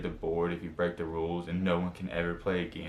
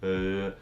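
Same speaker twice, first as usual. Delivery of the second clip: sick groan demo. Shown as a demonstration. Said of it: "if someone sounds sick".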